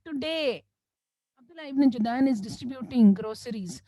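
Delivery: mock public proclamation, rising at the end; imitated public announcement. Crier atop the Kaaba announcing a giveaway to Makkah, proclaiming. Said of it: "they will announce".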